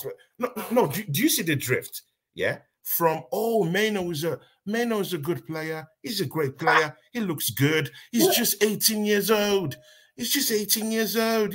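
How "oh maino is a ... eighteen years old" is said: mimicking another podcaster's accent; mock quote in a borrowed podcaster accent; Sheikh TV. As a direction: put on the podcaster's accent, mocking his praise. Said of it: "in that Sheikh T V accent".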